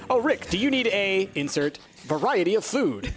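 flat robotic imitation of Rick. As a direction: say it like a stiff robot. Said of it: "like a robot would say".

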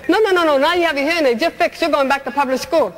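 wag a finger at her, taunting; taunting voice of fate. Retold or imitated. Society yanking her back to public school, taunting.

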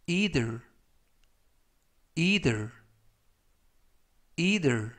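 either said clearly three times, with pauses to repeat; careful pronunciation demo. Shown as a demonstration. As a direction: model either for the class. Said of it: "이라고 발음하시면 되겠고요". (either를 또박또박 세 번 발음 시범)

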